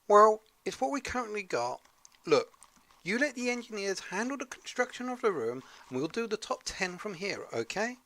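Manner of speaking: calm the host in a hammy Scottish voice; Scottish accent. Acted. Sidekick telling host to leave it to engineers, mock Scottish accent. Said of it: "put on this weird Scottish accent".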